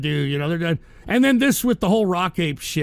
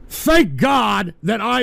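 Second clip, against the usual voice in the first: slow, loud, drawn-out yell of exasperation; angry shout; 2 semitones higher, 4 dB louder, much slower than usual. Real, not acted. Streamer fed up with chat, slow furious shout. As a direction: spit it out slowly, fed up. Streamer exploding at trolling fans.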